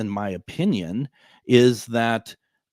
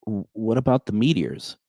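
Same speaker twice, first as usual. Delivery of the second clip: timid caller. Retold or imitated. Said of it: "she's just like".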